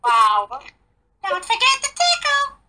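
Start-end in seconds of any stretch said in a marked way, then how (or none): 1.3-2.6 dirty Elmo voice. Pretend. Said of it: "my Elmo impression".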